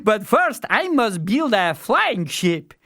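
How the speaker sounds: high, loud eager fool voice; simple fool. A narrator's reading. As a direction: announce the plan like a proud simpleton. Fool voiced answering old man.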